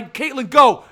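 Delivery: laughing shout to a friend; cheering someone to start their rant; calling out. Real, not acted. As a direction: egg her on, loud and laughing.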